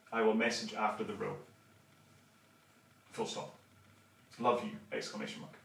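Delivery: dictating a text to his phone, punctuation spoken out; dictating a reply to his sister with punctuation; dictating a message. Shown as a demonstration. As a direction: read it out like voice dictation, saying each full stop. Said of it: "I'll do it in voice".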